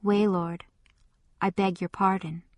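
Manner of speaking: subdued, soft apology; humbled. A narrator's reading. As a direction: back down, head bowed. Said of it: "he bowed his head a little and said".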